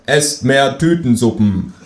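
slow, droning propaganda chant; mock slogan. Kangaroo mocking instant-soup propaganda, droning slogan. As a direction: intone it like state propaganda.

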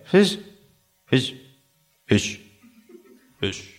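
betrunkenes Wegdämmern. Acted. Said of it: "dann kippt es nach hinten".

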